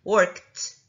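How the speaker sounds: Worked. said with a crisp T at the end, no extra vowel; final T sound. Shown as a demonstration. Teacher showing students the ending: Worked. with a crisp final T. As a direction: close Worked. on a sharp T. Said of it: "olha o som do T no final".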